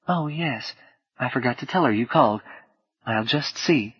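soft woman's voice, lightly southern US; slight southern accent. Acted. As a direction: answer softly with a hint of Southern. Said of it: "the same woman's voice came on".

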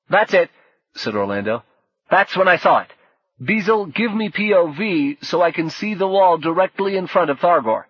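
loud, high, excited; urgent eureka. Acted. Orlando excited spotting it.

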